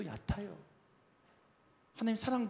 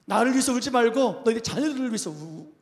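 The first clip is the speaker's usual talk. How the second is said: loud, lightly acted exhortation; preacher quoting a command with raised volume; Jesus; 4 semitones higher, 7 dB louder than usual. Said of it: "예수님 말씀하시잖아요".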